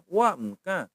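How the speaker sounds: wa mka in separated syllables; hummed m between wa and ka; shown intonation. Shown as a demonstration. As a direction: model the tones of wa mka. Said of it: "begitu intonasinya ya".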